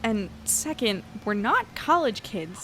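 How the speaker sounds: slow and deliberate, leaning on not; annoyed emphasis. Acted. Correcting the stranger on the ferry, slow and pointed. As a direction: spell it out slowly, hitting not.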